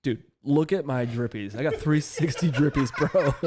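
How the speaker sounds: hyped bro voice. Acted. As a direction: show off like a frat bro. Hyping own whiskey drips.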